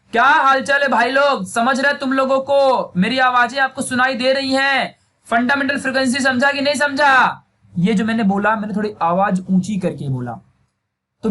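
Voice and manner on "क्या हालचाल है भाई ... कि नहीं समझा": higher voice. Shown as a demonstration. Teacher demonstrates a slightly raised voice to students. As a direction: demo of speaking a bit higher pitched. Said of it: "अगर थोड़ा मैं इससे higher बोलूं तो".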